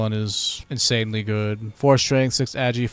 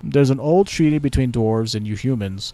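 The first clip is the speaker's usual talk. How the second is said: haughty elf, a touch louder; elf ambassador; 3 dB louder than usual. Pretend. Elven ambassador greets the new Lord Protector, haughty. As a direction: greet the human with lofty pride.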